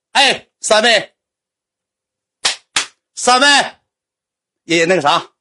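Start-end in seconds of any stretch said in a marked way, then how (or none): 0.1-3.5 slow, high drawn-out call across the room. Retold or imitated. Friend calling the three hostesses over, slow high call.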